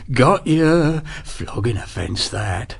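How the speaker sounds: very soft, slow gloating. A narrator's reading. Sergeant gloating softly over Sharp's punishment. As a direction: whisper the threat with relish. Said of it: "he said softly".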